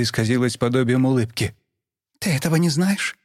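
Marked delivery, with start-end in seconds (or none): 2.2-3.2 cold and cruel. A narrator's reading. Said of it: "Её голос был безжалостно холодным".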